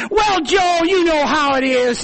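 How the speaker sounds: lightly voiced, squirming excuse-maker; a hint of the church man dodging Joe; hedging church man.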